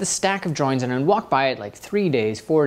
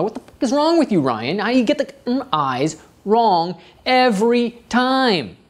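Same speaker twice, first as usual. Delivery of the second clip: berating himself, pitched up and pushy; exasperated inner critic tearing into himself; harsh self-scolding; 6 semitones higher than usual. Retold or imitated. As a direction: snap at yourself over the same mistake. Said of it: "This is what I'm saying to myself".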